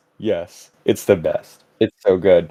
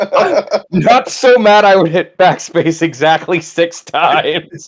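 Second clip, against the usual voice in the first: laughing; 3 semitones higher, slower than usual. Real, not acted. Joking about limits to anger, laughing.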